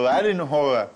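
coastal exclamation. Retold or imitated.

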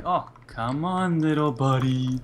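slow coaxing croon; creepy seductive voice. Retold or imitated. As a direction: lure it in, creepy and sweet. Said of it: "I love your voice for that".

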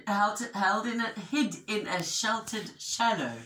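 animated picture-book narration; measured, expressive storytelling; story reading to children. A narrator's reading. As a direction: tell it clearly to young listeners.

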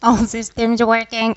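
slow, even robot voice. Pretend. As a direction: drone it slowly like a robot. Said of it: "Have you become a robot?".

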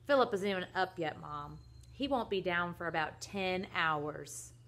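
tattling call from another room; lightly acted yell from the bathroom; mild yell. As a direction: call out to tell on a brother. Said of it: "yelled from the bathroom".

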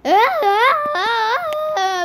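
high, wobbly mock wail; mimicked wail. Friend echoing the player's wail, mocking high wail. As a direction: copy a wobbly wail back.

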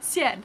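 ciel said syel, one syllable; French ciel. Shown as a demonstration. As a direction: say ciel together. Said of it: "Say it with me".

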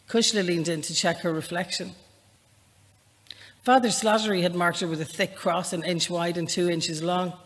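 lightly voiced novel reading, measured and even; story narration. Unhurried reading voice, only a little apart from her chat. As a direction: author reading her opening scene to the interviewer, calm narration.

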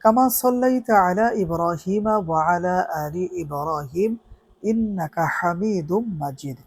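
recited prayer. Shown as a demonstration. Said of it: "তিনবার দুরূদ শরীফ পড়ব".

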